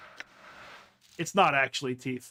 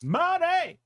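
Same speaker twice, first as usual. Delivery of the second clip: higher, louder gleeful cry; excited shout; 13 semitones higher, 4 dB louder than usual. Real, not acted. Player cheers on getting money, excited. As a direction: cheer at the payout.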